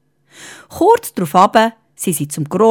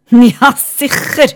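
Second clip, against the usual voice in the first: proud wizard; 5 semitones higher, 6 dB louder, slower than usual. Acted.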